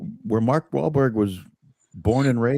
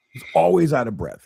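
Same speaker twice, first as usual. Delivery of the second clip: louder, higher repeat; emphatic; 6 semitones higher, 4 dB louder than usual. Shown as a demonstration. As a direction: push it out insistently.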